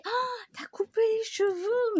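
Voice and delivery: high gushing compliment; gushing friend. Retold or imitated. Friend noticing her new haircut, high and gushing. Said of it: "Elle me dit".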